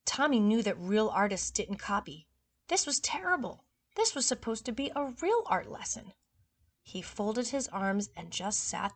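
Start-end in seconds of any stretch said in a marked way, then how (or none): 2.7-6.1 dismayed. Acted. Tommy's dismay.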